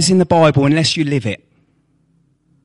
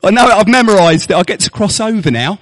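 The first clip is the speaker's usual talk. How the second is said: mock hypocrite; 4 semitones higher, 4 dB louder than usual. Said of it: "It's like saying".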